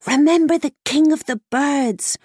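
high horse-like whinny voice; whickering mare. Acted. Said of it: "whickered the mare in his ear".

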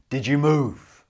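loud, suspicious wolf voice. Acted. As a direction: growl the question like a wolf. Wolf questions the girl.

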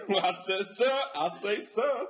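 blustering Southern general impression; hammed-up Southern US accent; mock American Southern accent. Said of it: "like a Southern general from America".

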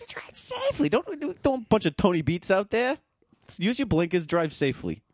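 high squeaky safety warning; mock PSA voice. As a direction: deliver it like a silly public notice.

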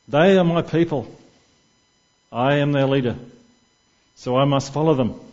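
statesman-like declaration. Retold or imitated. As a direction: hand on heart, grand politician's speech. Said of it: "puts his hand on his heart and gazes up in the sky".

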